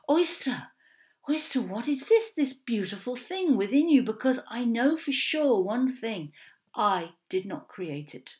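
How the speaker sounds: a hint of a wondering god; Holy One voice. Holy One speaks to oyster.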